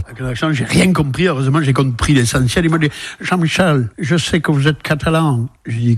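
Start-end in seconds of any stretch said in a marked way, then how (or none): 3.2-5.5 put-on American accent. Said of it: "il l'imite à la perfection".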